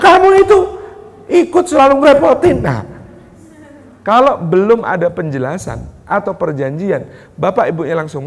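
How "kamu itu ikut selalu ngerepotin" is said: much higher and louder scolding parent; angry scolding. Retold or imitated. Parent angrily scolding a child who wants to go home, loud. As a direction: scold the child sharply, exasperated.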